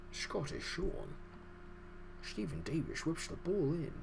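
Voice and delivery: put-on breathy Scottish Sean Connery accent; Sean Connery impression. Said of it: "Sean Connery would have a field day saying that".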